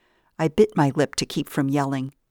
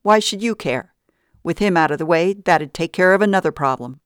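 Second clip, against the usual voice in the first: harsh; 3 semitones higher, 4 dB louder than usual. Acted. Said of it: "Vita's voice was harsh".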